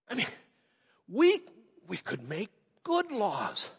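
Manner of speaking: acted protest, halting then insistent; tempted objection. Disciple objecting to Jesus about the road to power, mock protesting. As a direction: push back, then rationalize with stretched pauses. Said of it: "tempted at that moment to say".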